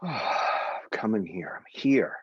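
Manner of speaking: sighing out, then a firm I'm here; sigh then affirm. Shown as a demonstration. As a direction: exhale and land on here. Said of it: "giving yourself permission to make some sound".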